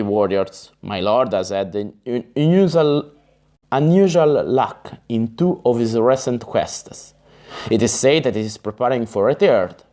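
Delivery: plain reading voice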